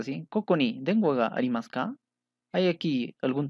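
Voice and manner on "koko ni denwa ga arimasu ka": "Koko ni denwa ga arimasu ka" with a rising end; question intonation. Shown as a demonstration. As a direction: raise "ka" to make it a question. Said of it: "como pregunta".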